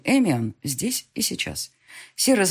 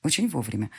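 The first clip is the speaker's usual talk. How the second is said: ordinary delivery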